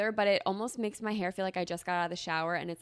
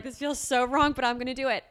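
giddy guilt; 6 semitones higher, 7 dB louder than usual. Retold or imitated. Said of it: "Literally, I was like".

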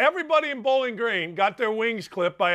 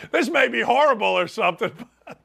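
hiccup giggles; 2 semitones higher, 3 dB louder than usual. Real, not acted. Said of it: "I can't stop laughing about that".

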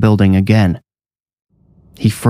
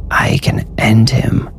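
slow, eerie whispered tempter; whispering; 2 semitones higher, slower than usual. A narrator's reading. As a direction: breathe it slowly like a voice inside his head. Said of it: "whispered in Jackson's mind".

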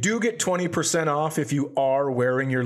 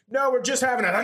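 higher pleading neighbor; annoyed neighbor; 9 semitones higher, faster than usual. Retold or imitated. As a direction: plead over the noise. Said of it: "neighbor quoted again".

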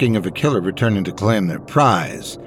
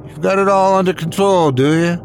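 mocking, much higher pitch; sarcastic angry; 9 semitones higher than usual. A narrator's reading. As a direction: throw it back at him, scornful. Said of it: "Anderson angrily scooped a fang".

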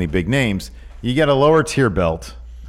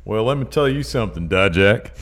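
put-on Southern accent. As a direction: address a rival in a mock Southern accent. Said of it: "that's a really good Southern accent".

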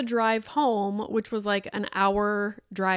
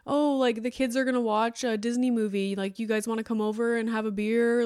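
cheery neighbour invite; 2 semitones higher than usual. Pretend. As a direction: play the easygoing friend inviting you for pizza. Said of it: "Or, like".

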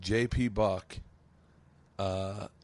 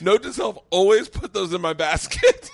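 loud, higher comic resolve; pitched-up, punchy aside; mock note to self; 8 semitones higher, 9 dB louder than usual. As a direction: exclaim it like an excited reminder. Acts out astonished self-reminder, laughter.

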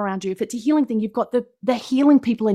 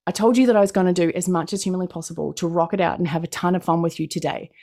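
ordinary talk, nothing marked

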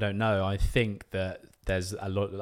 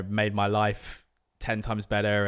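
usual speaking voice

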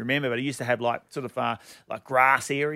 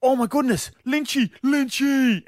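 excited fan; 6 semitones higher, slower than usual. Retold or imitated. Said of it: "a guy walked over and goes".

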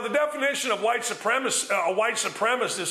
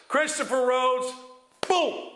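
excited; 3 semitones higher than usual. Real, not acted. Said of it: "I got excited there".

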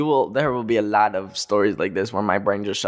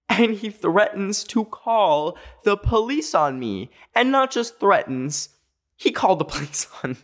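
incredulous; 9 semitones higher than usual. Real, not acted. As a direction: stretch it out, stunned. Disbelief at the police threat.

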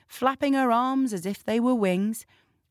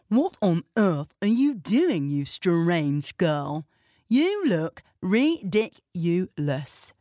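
scoffing; slower than usual. Acted. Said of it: "scoffed the judge's daughter".

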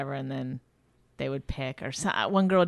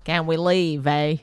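half-hearted attempt at a Canadian accent; badly faked Canadian accent; slower than usual. Polite Canadian audience asking to leave, in weak Canadian accent. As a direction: try Canadian with a tagged-on "eh". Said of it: "I can't even do a Canadian accent".

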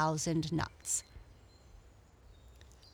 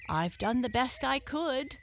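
bravely; 8 semitones higher than usual. A narrator's reading. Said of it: "said Mister Chipmunk bravely".

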